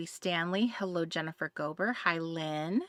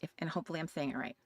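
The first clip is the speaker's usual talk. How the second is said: ordinary delivery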